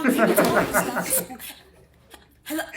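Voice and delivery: teacher breaking into laughter; laughing through the line; cracking up. Real, not acted. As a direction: lose it mid-scolding.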